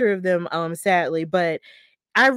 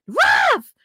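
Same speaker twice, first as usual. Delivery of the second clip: higher, louder bark at the referee; mock angry shout at the referee; yelling at the ref; 10 semitones higher, 6 dB louder than usual. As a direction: call out the ref in protest. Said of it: "she was yelling at the referee".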